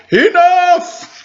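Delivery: high, loud squealing shout; pigs crying out. Acted. Three fed-up pigs shouting enough at the wolf. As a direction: burst out high like angry little pigs. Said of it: "little pigs cried".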